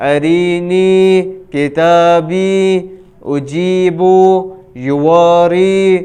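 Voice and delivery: slow, drawn-out recitation of whole words; fluent Qur'anic reading. Shown as a demonstration. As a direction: read each word smoothly, stretching the vowels. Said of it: "رواں کس طرح پڑھیں گے؟". (روانی سے آہستہ کھینچ کر پڑھنا)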